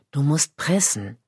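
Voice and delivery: gentle partner urging her on; calm. A narrator's reading. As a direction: say it calmly, low and even. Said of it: "sagtest du ruhig".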